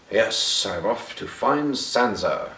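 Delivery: lightly voiced proud knight; a slow, measured mock-proud declaration; Brienne. Reviewer imitates Brienne riding out, lightly mock-proud. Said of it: "Brienne's riding all proud".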